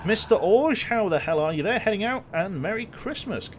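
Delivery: loud, high hail across the deck; calling out. Real, not acted. Captain hailing a crewman across the deck, loud and cheery. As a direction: shout a cheery greeting down to the foredeck.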